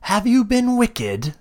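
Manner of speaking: high, eerie creature voice; sing-song menace from the cells; caged beast-elf taunts the visitor, high and eerie; monstrous voice. Acted. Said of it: "you hear another voice go".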